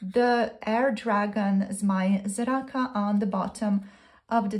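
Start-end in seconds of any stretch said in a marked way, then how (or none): 1.7-2.9 Zmaj Zraka said slowly in Slovenian, zmai zrah-ka; Slovenian words. Shown as a demonstration. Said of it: "in Slovenian".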